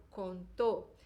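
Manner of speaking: contou with a closed O, stress on the last syllable. Shown as a demonstration. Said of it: "manter o som do O fechado". (contou, com o som do O fechado)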